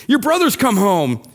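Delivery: mildly excited announcement. Acted. Servant telling the older brother the news, excited. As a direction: share the news with a lift of excitement. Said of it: "I think he said it excited".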